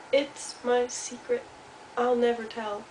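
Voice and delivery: lightly voiced, slow mouse refusal; secretive little Mouse. Mouse answers Hedgehog, mildly secretive. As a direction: gently hold back, spacing the words.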